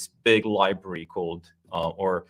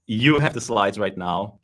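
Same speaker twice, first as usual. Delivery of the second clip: buffering stutter on the line; choppy connection breaking words up; choppy audio; 4 dB louder, slower than usual. Real, not acted. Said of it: "my audio is a bit choppy".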